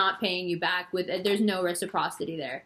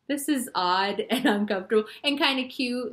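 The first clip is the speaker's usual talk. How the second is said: 1 amused; 3 semitones higher than usual. Retold or imitated. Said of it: "it's like".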